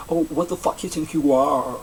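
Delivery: a touch of English accent, lightly voiced; imitating the English friend's accent on the rude line; mock English accent. Retelling the English girl's story, in a mock English accent. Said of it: "such an English accent".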